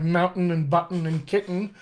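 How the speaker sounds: "mountain", "button", "kitten" with the t held and released into the n; "button" and "kitten" ending in a syllabic n; own regional pronunciation. Shown as a demonstration. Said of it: "I'll also say things like".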